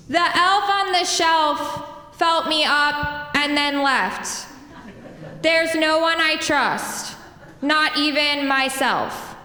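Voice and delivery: slow poem reading, laughter breaking in. Acted. Poet reading a funny short poem, laughing. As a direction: let a laugh slip through the slow lines.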